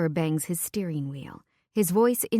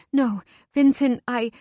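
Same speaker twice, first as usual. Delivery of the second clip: urgent; 6 semitones higher, 7 dB louder than usual. A narrator's reading. Grabbing him, stopping a fight.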